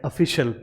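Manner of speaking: ऑफिशियल as "uh-FI-shul"; correct pronunciation. Shown as a demonstration. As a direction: say ऑफिशियल with a short "shul" ending. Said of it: "इसका pronunciation जो है".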